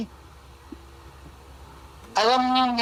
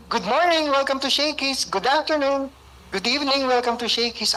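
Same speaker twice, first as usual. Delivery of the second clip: imitating a shouted greeting; 4 semitones higher than usual. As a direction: sing out the greeting to customers at the door. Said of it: "Sumisigaw yun".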